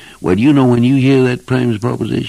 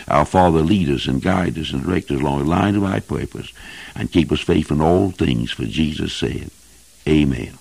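lower, plainly spoken prayer; closing prayer; 5 semitones lower than usual. Real, not acted. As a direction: pray to close the sermon, voice settling lower. Closes sermon with prayer.

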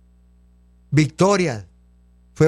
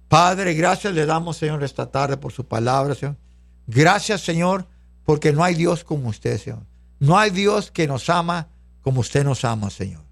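oración de gratitud, algo más grave; dirígete a Dios en oración de cierre; 4 semitones lower than usual. Real, not acted. Ora dando gracias a Dios. (plegaria de agradecimiento en tono sereno)

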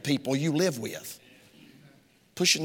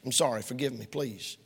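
sincere apology. Shown as a demonstration.

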